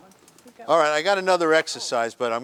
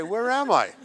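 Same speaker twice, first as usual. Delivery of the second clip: mock confused; 8 semitones higher than usual. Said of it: "you say".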